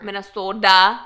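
loud "Minnesota" with a D for the T; exaggerated Minnesota accent on "Minnesota"; Minnesota accent, hard D. Shown as a demonstration. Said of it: "hit your D's a little bit more".

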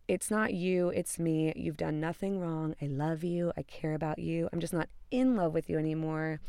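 soft, mock-sincere letdown; hushed recital of breakup clichés; clichéd breakup speech. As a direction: imitate a rote, gentle breakup speech. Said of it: "doing the typical bullshit of".

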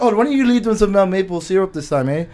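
lightly put-on, muddled Canadian accent; a hint of hammy Canadian accent, off target; mock Canadian accent. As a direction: have a go at a polite Canadian accent. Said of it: "that sounds like such a Canadian war".

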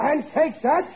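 high-pitched, hammed-up punishing father; stagy mock fury; sham scolding. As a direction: put on a scolding for someone listening outside. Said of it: "I'll hit the desk here with my belt".

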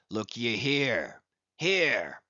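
hushed, slow, breathy whisper. A narrator's reading. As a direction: draw him close and whisper it. Ahab shows his scarred brow.

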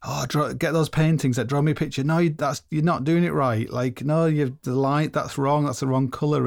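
a hint of a fussy, critical parent. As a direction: find fault with every stroke. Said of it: "you'd be like".

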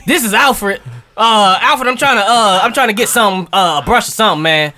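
high, mumbling caller voice; lightly mock the dopey caller; imitating caller Alfred. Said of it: "that's how he be calling".

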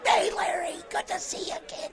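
very high, gushing greeting; gushing hello. Retold or imitated. Tour manager greeting Larry backstage, very high and gushing. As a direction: greet an old friend with delight. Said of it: "her tour manager goes".

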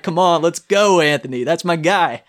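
loud, high, hyped-up invite to the driver; rally him like a buddy you want along; excited cheer. Retold or imitated. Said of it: "And we're like".

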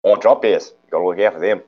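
put-on Australian accent. Shown as a demonstration. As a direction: exclaim it in a mock Australian accent. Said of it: "only time I can kinda do an Australian accent".

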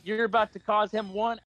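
amused imitation of a threat; laughing mock threat. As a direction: deliver the punchline through rising laughter. Retold threat, breaking into laughter.

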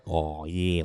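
slow Aussie bogan drawl; bogan accent. Shown as a demonstration. Guest suggests a voice to the host, bogan accent. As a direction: stretch it out like a bogan. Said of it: "like a, like a bogan".

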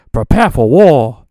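slow, loud mock East Asian accent. Vlogger mimicking Kim Jong-un in a mock East Asian accent. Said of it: "my, uh, accent of an Asian person".

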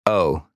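O held as the long oh of oak, for the learner to repeat; vowel sound demo. Shown as a demonstration. Teacher sounds out O as in oak. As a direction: say O clearly as in oak. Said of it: "The following symbol is pronounced".

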